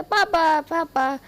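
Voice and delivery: put-on a toddler leaping into his arms shouting; child calling papa. Ayuan jumps on Wangji calling him papa, excited child's call.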